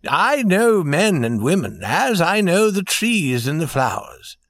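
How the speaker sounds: warm and proud. A narrator's reading. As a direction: declare it with a touch of warm pride. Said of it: "said the prince warmly and proudly".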